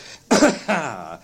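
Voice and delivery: breathless chuckling cough; coughing chuckle. A narrator's reading. Old Scrooge overcome by his own joy, coughing and chuckling. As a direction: chuckle until it turns into a cough. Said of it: "coughing and chuckling together".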